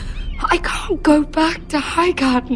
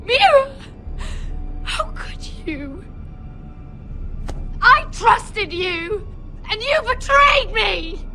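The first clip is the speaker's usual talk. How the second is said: crying, hurt accusation; tearful betrayal; 4 semitones higher than usual. Acted. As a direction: choke up with betrayal.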